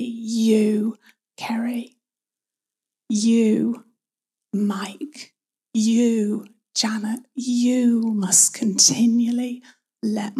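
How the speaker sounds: each "You" set apart, the name following after a pause; single out "You" for each listener, slowly; stress on YOU. Shown as a demonstration. Holy Spirit addressing each person by name, stress on "You". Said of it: "emphasize each word in turn".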